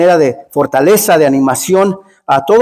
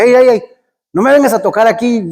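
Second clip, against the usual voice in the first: higher-pitched mock warning to back off; imitated angry homeowner; 4 semitones higher than usual. Big man warns preacher off his door, mock angry. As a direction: act out a man warning off a caller. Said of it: "salió un güero bien grandote".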